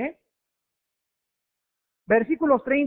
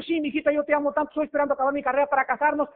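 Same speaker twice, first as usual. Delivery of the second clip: put-on lovesick boyfriend; 4 semitones higher, much faster than usual. Poor boyfriend voiced.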